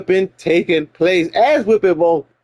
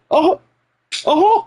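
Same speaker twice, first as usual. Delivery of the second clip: threatening uh-huh; 11 semitones higher than usual. Retold or imitated.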